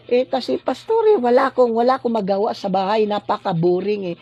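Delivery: imitated congregant's excuse. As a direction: act out a bored member explaining to the pastor. Imagined bored congregant answers pastor. (kunwaring nagrereklamong miyembro)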